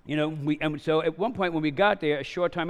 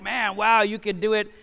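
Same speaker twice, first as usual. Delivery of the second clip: raised, higher voice of amazed onlookers; mildly called out; 5 semitones higher, 4 dB louder than usual. Retold or imitated. Onlookers cheering on the cooler carriers, mildly called out. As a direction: call it out like an impressed passer-by. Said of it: "they're yelling these things out".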